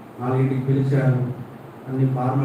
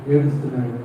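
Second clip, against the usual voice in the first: ordinary talk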